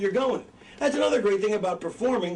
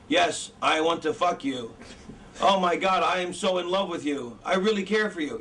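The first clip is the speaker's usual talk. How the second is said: mock a lifeless movie love confession; wooden bad actor. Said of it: "Imagine if the actors were like".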